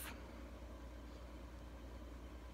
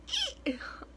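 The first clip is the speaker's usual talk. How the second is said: voice crack squeak. Shown as a demonstration. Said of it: "I can hear my voice go".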